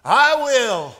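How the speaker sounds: loud, high, eager bark of words; barking dog. A narrator's reading. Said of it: "barked the dog".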